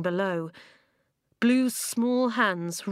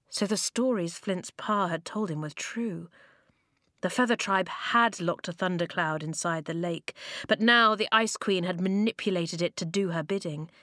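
ordinary delivery, nothing marked

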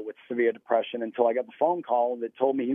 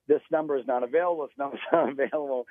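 recorded phone message; faster than usual. Retold or imitated. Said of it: "it's just saying".

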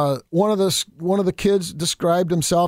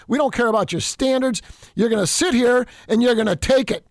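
higher, pushier mock-bully voice; lightly voiced sneering opponent laying down the law; mild mock of a bossy opponent; mocking the left; 4 semitones higher than usual. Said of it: "because that's what the left does".

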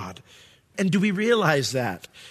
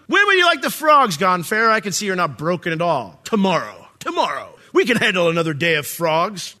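mock challenge; 2 semitones higher, 3 dB louder than usual. Voicing Moses then Pharaoh mockingly.

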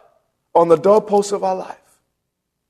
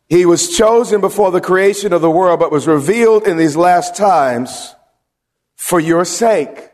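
verse repeated a bit faster; preacher rereading the verse; scripture reread. Acted. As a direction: restate the verse with a firm close.

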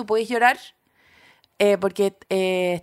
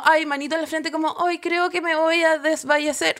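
mock delicate fainting, higher voice; a hammed-up "feeling faint" voice; dainty swoon; 4 semitones higher than usual. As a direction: play a dainty, ladylike swoon. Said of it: "no era desmayo así como".

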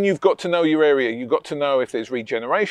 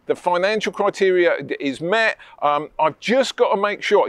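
confident buyer demo. Shown as a demonstration. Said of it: "This is what I would say".

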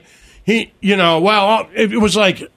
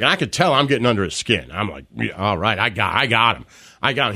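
muttered inner gloating; 9 semitones lower, 5 dB quieter than usual. Retold or imitated. Punter's retold inner gloating.

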